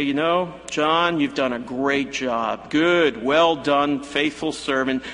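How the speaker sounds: mildly condescending pat on the head; patronizing. Pretend. Jesus patronizing John, mildly condescending praise. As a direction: talk down to him kindly. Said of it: "he could have been patronizing".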